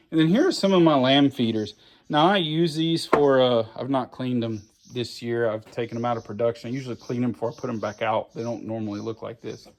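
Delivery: out of breath in the heat; breathing hard between words; heavy breathing. Real, not acted. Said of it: "Sorry about the breathing, guys".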